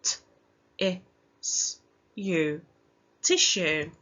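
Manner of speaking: each sound of tissue said apart, then blended; sounding out letters. Shown as a demonstration. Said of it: "Let's pinch our sounds".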